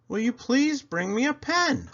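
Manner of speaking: a dad calmly asking his son; father voice. Acted. Father asking Buddy for a pen, patiently.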